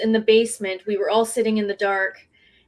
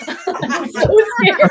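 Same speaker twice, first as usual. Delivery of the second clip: high, loud, drawn out through laughter; laughing; 10 semitones higher, 6 dB louder, slower than usual. Real, not acted. Investigator joking about staying at the haunted hotel, laughing. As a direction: laugh helplessly while admitting a fright. Group laughing at her fright.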